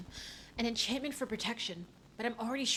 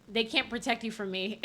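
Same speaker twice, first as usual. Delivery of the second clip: menacing reread. Acted. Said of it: "You know that's not what I fucking meant".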